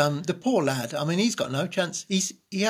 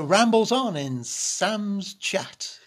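mocking slow drawl; 5 semitones higher, much slower than usual.

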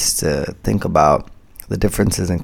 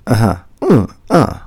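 backchannel listening noises; 5 dB louder than usual. Shown as a demonstration. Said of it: "I'll remind myself".

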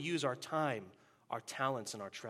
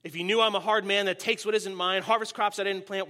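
roaring tyrant king; 4 dB louder than usual. Acted. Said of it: "the king roared".

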